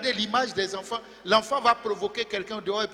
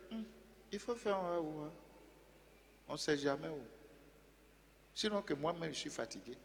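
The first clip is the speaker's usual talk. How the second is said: much softer, lower tired grumble; mock weary mumble; 7 semitones lower, 18 dB quieter, faster than usual. Preacher mimics a tired believer, low and soft. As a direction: sound like a worn-out listener giving up. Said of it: "si c'est toi, tu vas dire".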